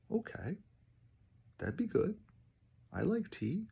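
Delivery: a playful hint that he'd like an invite; mock eager. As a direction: pitch it up like a hopeful guest. Teasing reply to tea party.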